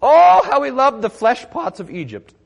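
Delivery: mock complaining. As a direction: ham up the grumbling Israelites pining for Egypt. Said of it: "they're complaining".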